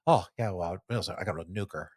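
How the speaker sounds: lightly imitated dark golfer voice; Tiger. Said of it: "when his voice got dark, like, di-, like, deeper".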